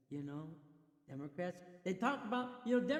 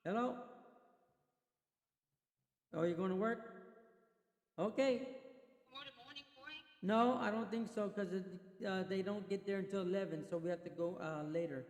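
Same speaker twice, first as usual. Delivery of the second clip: side call on the phone to wife; turning away from phone. Real, not acted. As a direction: speak off-mic into a phone. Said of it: "that was my wife".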